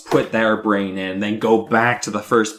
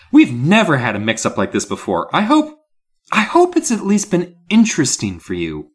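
casual apology; 5 semitones higher, 4 dB louder than usual. Acted. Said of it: "This is the tone I think she's actually delivering".

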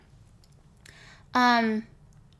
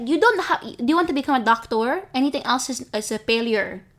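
pushy relatives; 2 semitones higher than usual. Retold or imitated. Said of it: "titos who are like".

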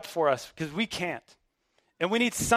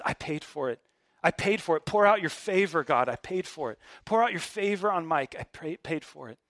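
tender intercession. Retold or imitated. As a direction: gently plead for them. Jesus interceding before God.

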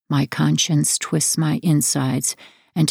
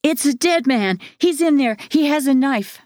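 high, panicked scream of fear; terrified shriek; 11 semitones higher than usual. A narrator's reading. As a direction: shriek it as if the knife is right there. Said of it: "he shrieked".

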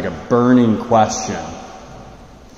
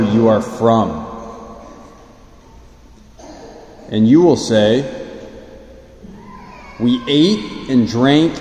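gospel reading. Acted. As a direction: proclaim the Gospel with solemn pauses. Gospel proclamation at Mass.

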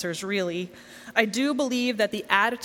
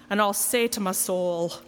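lightly theatrical, dropping low on the repeated "Soul"; playful stage delivery with a low, weighty last word; theatrical line; 4 semitones lower, slower than usual. Acted. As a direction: savour the line, pause, then a low "Soul". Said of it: "It's theatrical, that lovely little line".

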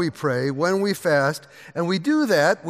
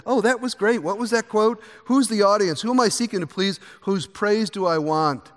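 gushing praise from a congregant, pitched higher; imagined admiring churchgoer; 5 semitones higher than usual. Retold or imitated. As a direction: play an impressed listener fawning over the sermon. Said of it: "people will say".

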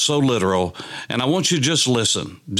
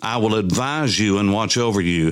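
scripture reading. Acted. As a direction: read the psalm aloud, drawing out the line endings. Reads psalm aloud.

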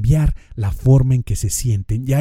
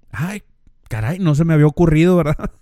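sarcastic; 3 semitones higher, 4 dB louder than usual. Retold or imitated. Sarcastic reply to the advice.

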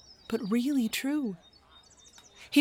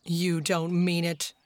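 teasing; 3 semitones lower, slower than usual. Acted. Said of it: "teasing them".

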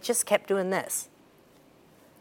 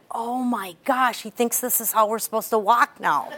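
laughing realization; 3 semitones higher than usual. Retold or imitated. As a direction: let the laugh in as it dawns on you. Realizing her son copies her.

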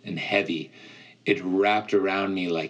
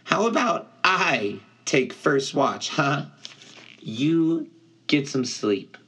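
gentle satyr voice; 6 semitones higher than usual. Acted. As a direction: ease him toward sleep. Grover voiced, gentle offer.

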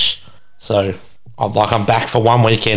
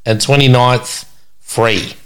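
announcement. Real, not acted. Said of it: "announcing to listeners".

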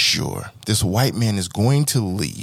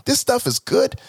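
perky suburban small talk, pitched way up; 10 semitones higher than usual. Retold or imitated. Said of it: "I'm delivering it in a white tone".

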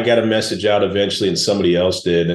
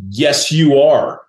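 insistent stranger; 6 semitones higher, 4 dB louder, much slower than usual. Retold or imitated. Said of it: "And she was like".

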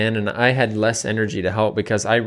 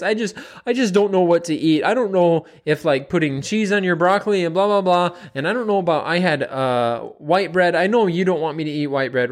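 higher, fretful, apologetic client voice; mimicking anxious client; 5 semitones higher than usual. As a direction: rattle it off like a nervous client who keeps apologising. Coach imitating anxious client.

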